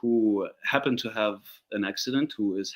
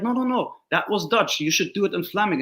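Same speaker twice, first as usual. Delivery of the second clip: quoting the casting director; 8 semitones higher than usual. Retold or imitated. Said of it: "she was like".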